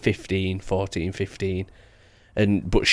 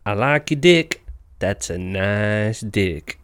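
Donkey impression; much slower than usual. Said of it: "Like a donkey on Shrek".

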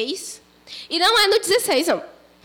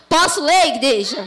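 calling out. Real, not acted. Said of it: "Não".

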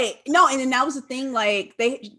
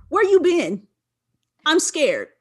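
higher, louder mock fright; mock scared whine; 6 semitones higher, 5 dB louder, slower than usual. Daughter to her late dad, higher, louder, mock scared. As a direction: play the scared daughter, half-hearted. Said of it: "And I'm like".

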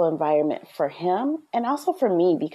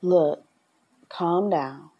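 soft parent voice. Shown as a demonstration. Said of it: "You can use your soft voice and speak softly".

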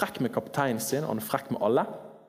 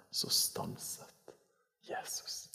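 whispered, slow, in hushed awe; awed whisper; 10 dB quieter, much slower than usual. Acted. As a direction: breathe it like holding your breath. Awed whisper of key verse.

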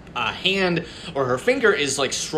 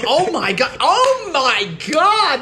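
retold panic; 10 semitones higher, 4 dB louder, slower than usual. Retold panic watching the stage.

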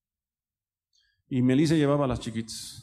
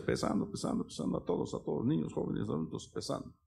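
hushed imagining; 5 semitones higher, 6 dB quieter than usual. Acted. Imagining God weighing everyone.

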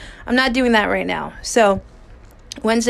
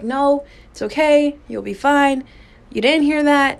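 self-reassuring; 4 semitones higher than usual. Retold or imitated. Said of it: "I'm like".

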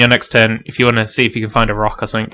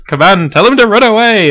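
high-pitched, louder mock command; commanding a fiend; 9 semitones higher, 5 dB louder than usual. Player ordering their fiend to attack, high commanding call. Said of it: "say to the fiend".

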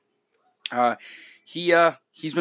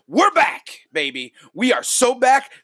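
excited; 5 semitones higher, 3 dB louder than usual. Real, not acted. Excited return to the air.

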